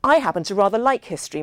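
fast and bright, a strained cheer; forced jollity. Acted. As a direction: keep it jolly though it stings. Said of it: "straining to keep his tone jolly".

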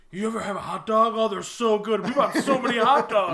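beaming, carefree, building to a shout; jolly loud grill dad. Acted. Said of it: "they're just like".

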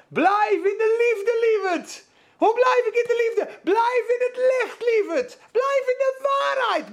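rising sermon fervour, shouted high; fervent preaching. Acted. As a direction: call it out over the congregation. Preaching at full force.

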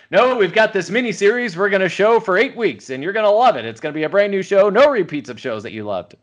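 TV network promo. Retold or imitated. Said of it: "Now it's just like".

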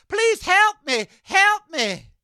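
high, whiny mock begging; anti-vaxxers begging once sick, mock high whine; mock pleading. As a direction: beg for help in a high, pathetic whine. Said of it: "And then they get sick".

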